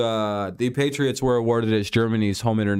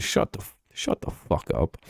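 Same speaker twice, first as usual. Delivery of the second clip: hushed whisper, much softer; whispered retort; 6 semitones lower, 4 dB quieter than usual. Retold or imitated. Fan snapping back at rivals, a whispered curse. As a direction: mutter it under your breath.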